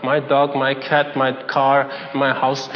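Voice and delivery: low, droning list of blessings; mock Christian prayer. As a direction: recite it like a rote self-centred prayer. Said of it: "Just look at a Christian's prayer".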